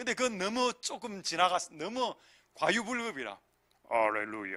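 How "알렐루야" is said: sonorous, resonant, churchy chest-voice holy tone. Demonstrating the changed voice called holy voice on alleluia: chest-resonant holy voice. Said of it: "이런 목소리로 바꿔놓고 내려오고 이게 이 목소리가 되면 홀리 보이스다".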